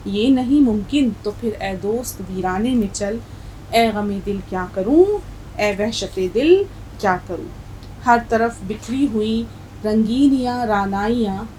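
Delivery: measured Urdu verse recital; poem recitation. Acted. Teacher reciting the nazm to her class, poem recitation.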